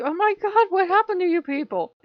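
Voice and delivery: high, loud mock horror; incredulous. Viewer reacting to the mad gurus, incredulous. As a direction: cry it out high in exaggerated dismay.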